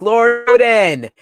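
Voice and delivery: high, loud, drawn-out call; acted adoring cry. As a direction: slowly wail out to a beloved lord. Voicing tearful followers calling their lord.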